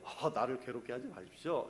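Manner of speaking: low, soft, understated plea; mild polite request. Shown as a demonstration. Preacher shows how the demon would not have said it, meek low request. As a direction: say it meekly, as if asking politely. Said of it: "이 톤이 어떨 것 같아요?".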